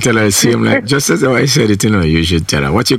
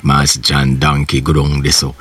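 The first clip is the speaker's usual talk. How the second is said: Jamaican patois; 4 semitones lower than usual. Shown as a demonstration. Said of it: "to say, like".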